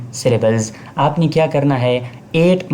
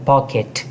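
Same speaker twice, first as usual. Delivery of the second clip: पॉकेट in two clear syllables; syllable demo. Shown as a demonstration. Teacher giving a two-syllable example, syllable demo. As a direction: say पॉकेट as pock-et, both beats distinct. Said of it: "दो syllable है".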